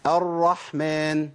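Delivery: "الرحمن" very slow, the doubled ra held long; drawn-out ra. Shown as a demonstration. Teacher models the word for students, slow careful ra. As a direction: stretch the ra in "الرحمن" evenly, gently. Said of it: "الناس اللي بتكرر".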